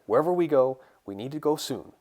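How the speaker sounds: high, pressing call to move; urgent warning. Acted. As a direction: urge your friends to hurry. Urging friends to flee bombing.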